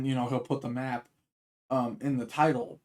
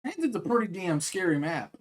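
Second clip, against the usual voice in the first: hiccups. Real, not acted. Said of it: "fight the hiccups while I'm talking".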